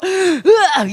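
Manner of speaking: short, high "argh" of temper; mock angry yell. Preacher asking listeners if they'd lose their temper, mock angry yell. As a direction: act out a quick burst of exasperation. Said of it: "승질 나가지고 막".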